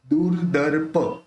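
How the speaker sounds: slow दूरदर्प as "dur-dar-pa"; रेफ जोड़ कर. Shown as a demonstration. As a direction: draw out दूरदर्प, sounding both r's. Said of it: "आगे आके अक्षर के साथ लेंगे". (दूरदर्प धीरे, दोनों रेफ के साथ)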